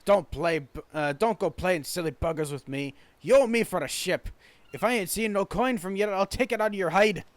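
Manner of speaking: threatening Scottish shipwright, punching the openings; angry Scottish accent. Acted. Shipwright demands coin owed for the ship, angry Scottish accent. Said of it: "why are you yelling?".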